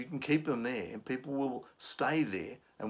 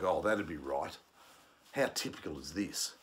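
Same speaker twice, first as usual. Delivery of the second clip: dry sarcastic grumble, a bit lower; low-level sarcasm; 4 semitones lower than usual. Shown as a demonstration. Trainer voicing a passenger's low-level sarcasm. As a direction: mutter it with weary sarcasm. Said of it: "It might be simply like".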